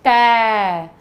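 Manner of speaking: "तै" said loud and clear as "tai"; clear teaching demo. Shown as a demonstration. Teacher models the syllable for kids, loud clear demo. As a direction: sound out "तै" for the class, open and full. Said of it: "कैसे?".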